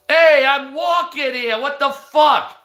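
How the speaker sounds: high-pitched mock outrage; indignant outburst. Streamer mocking an affronted pedestrian, high indignant outburst.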